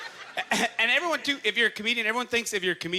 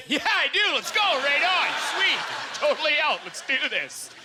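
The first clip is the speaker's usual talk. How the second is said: eager yes; 7 semitones higher than usual. Retold or imitated. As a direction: jump at the offer, all in. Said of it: "I was like, I go".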